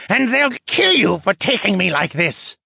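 high, heated threat; threatening. A narrator's reading. Captive merman tugging at bindings, threatening.

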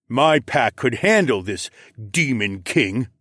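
slow, emphatic alpha voice; lightly voiced proud pack leader; boastful alpha. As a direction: cut in with slow bravado. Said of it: "Gunther cut in".

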